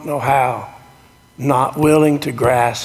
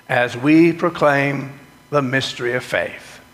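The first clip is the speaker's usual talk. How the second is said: liturgical recitation. Acted. Leads the communion liturgy.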